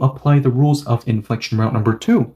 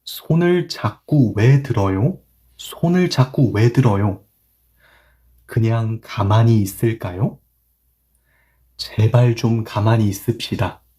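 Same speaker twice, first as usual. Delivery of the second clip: read slowly; much faster than usual. Shown as a demonstration. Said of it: "천천히 읽을게요".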